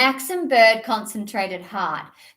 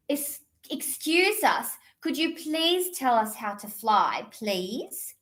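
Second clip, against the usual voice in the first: very politely; 4 dB quieter than usual. Acted. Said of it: "very politely".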